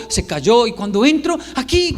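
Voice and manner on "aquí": higher-pitched call; mock-urgent holler; imitated child's yell. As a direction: call out urgently like a little boy. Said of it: "porque está gritando".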